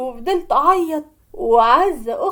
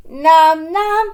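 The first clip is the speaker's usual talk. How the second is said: louder, sharp indignant retort; indignant outburst; 3 semitones higher, 6 dB louder, slower than usual. Acted. Sister to her husband, loud indignant disbelief. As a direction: snap back in disbelief.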